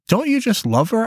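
high, hopeful pleading question; pleading wife. Acted. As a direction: coax him into loving her. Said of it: "I asked".

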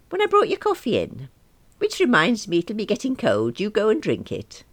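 high, loud, rushed babble; nervous chirpy fib to the boss; flustered cover-up. Acted.

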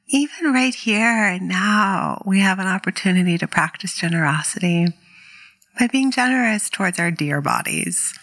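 calm meditation guide, unhurried with long pauses; guided meditation. Real, not acted. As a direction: gently lead listeners into stillness, leaving space between phrases.

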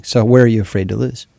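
ordinary talk, nothing marked

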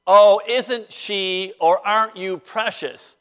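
slow, drawn-out mock admiration; sarcastic sympathy. Someone in the South pitying you, sarcastically. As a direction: coo it slowly, not meaning it. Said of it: "called sarcasm".

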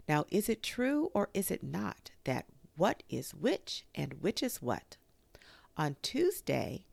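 measured, lilting verse reading; poem recital. A narrator's reading. Pooh recites his lines to Kanga, in measured verse. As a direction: recite simple verse with pauses at each line.

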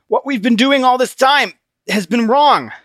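choked, strained plea; gasped plea. Acted. Christian choked by Obstinate, gasping plea. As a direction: force it out past a crushed throat.

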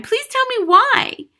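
slow, high, loud plea; crying out. A narrator's reading. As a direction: beg desperately for the reason. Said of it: "Matilda cried".

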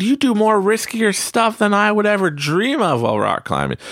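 high, incredulous friend voice; can't believe he's scared; climbing partner teasing a frozen friend in disbelief; disbelieving buddy. Retold or imitated. Buddy disbelieving his fear.

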